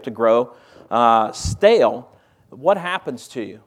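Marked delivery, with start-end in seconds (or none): 1.3-2.1 drawn out. Acted. Preacher stretches the word out.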